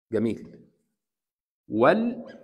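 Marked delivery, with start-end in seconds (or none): 1.7-2.3 والقمر as "wal... qamar", L held clearly; rising, broken-up "wal" opening والقمر; lam pronounced. Shown as a demonstration. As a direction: sound the L in والقمر, then pause before qamar. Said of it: "نطقنا اللام ولا لأ؟".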